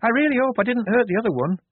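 high, loud worried moan; anxious high-pitched lament. A narrator's reading. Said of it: "moaned Shufti from above".

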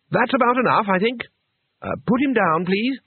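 high, hesitant timid request; Two Flower nervously asking Cohen to let go; timid plea. A narrator's reading. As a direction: plead nervously for him to stop. Timid owner pleading with Cohen.

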